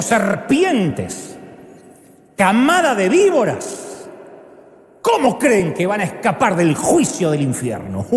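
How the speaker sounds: Jesus condemning. Retold or imitated. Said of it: "les dijo".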